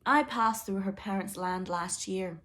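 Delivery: slow, lordly queen voice; a light touch of a haughty queen. Acted. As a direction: look down your nose as the queen. Queen haughtily greets son's princess.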